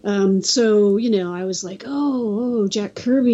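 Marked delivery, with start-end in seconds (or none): 1.9-3.3 mildly re-enacted fan excitement; drawn-out starstruck oh, a touch of excitement; excited kid. Kid spotting Jack Kirby at the convention, mildly excited. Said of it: "I was all excited".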